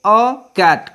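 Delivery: a cat with a said as short uh; article as uh. Shown as a demonstration. Teacher reading examples to students, a as uh. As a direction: say a as uh before cat. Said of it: "इसको अ पढ़ेंगे".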